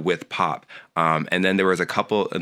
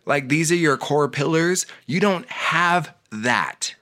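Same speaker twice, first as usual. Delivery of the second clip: laughing disbelief; 8 semitones higher than usual. Real, not acted.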